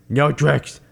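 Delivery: lightly voiced dazed boxer; a hint of punch-drunk fighter; Rocky impression. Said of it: "He was like".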